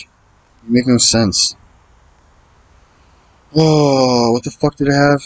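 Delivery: can't believe what the opponent just did; exasperated disbelief. Real, not acted. At the poker table, ranting at a baffling opponent, exasperated.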